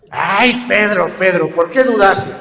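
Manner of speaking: hauling him up by the hair, scold him; rough scolding. Retold or imitated. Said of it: "lo pescó de las greñas".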